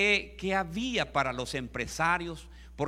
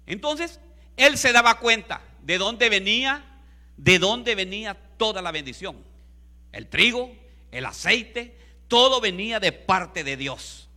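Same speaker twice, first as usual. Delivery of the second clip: raised, forceful preacher's cadence; emphatic preaching; 4 semitones higher, 10 dB louder than usual. Real, not acted. Preacher telling the congregation all blessing came from God, emphatic preaching. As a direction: proclaim it phrase by phrase with punch.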